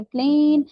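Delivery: प्लेन with a long ay; long first vowel. Shown as a demonstration. Teacher reading a long word, प्लेन with long ay. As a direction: lengthen the ay in प्लेन. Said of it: "first vowel को long कर देता हूँ".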